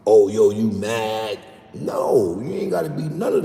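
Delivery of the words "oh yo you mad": slow, louder, imitating a southerner asking if you're mad; drawn out like a puzzled outsider; mock worried question. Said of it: "they look at that like you arguing".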